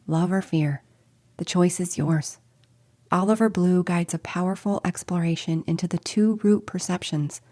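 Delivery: smooth, fluent scripted announcement; promo read. Acted. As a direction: read the invitation in even, polished phrases. Reads promo for live series.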